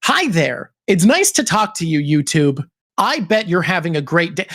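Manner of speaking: a hint of Toronto, crisp and sharp; Toronto accent. Shown as a demonstration. To YouTube, a mild Toronto accent. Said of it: "Here's me being a Toronto person".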